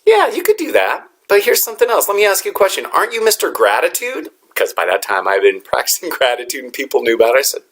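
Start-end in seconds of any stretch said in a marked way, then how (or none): 0.0-4.3 higher-pitched voice of a friend; lightly voiced friend, pitched up, offering another view; imitated friend. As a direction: gently challenge him in a raised, imitated voice. Friend gently challenges him, retold.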